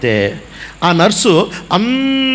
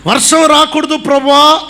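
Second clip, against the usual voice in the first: pleading prayer; 7 semitones higher than usual. Retold or imitated. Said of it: "అంటే".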